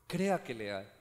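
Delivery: low, soft, intimate repeat; soft echo. Acted. Preacher softly repeating the plea to the church. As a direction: drop it to a hushed plea.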